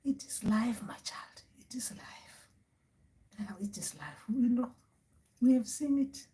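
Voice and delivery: hushed, resigned elder voice; soft, breathy ancestral granny; great-grandmother spirit. Acted. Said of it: "She's like".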